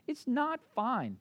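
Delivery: It's not fine, with NOT drawn out slow; stress on not. Shown as a demonstration. Preacher to church, stressing "not" in "It's not fine". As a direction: lean on "not" and let it fall. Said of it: "But you know how it is".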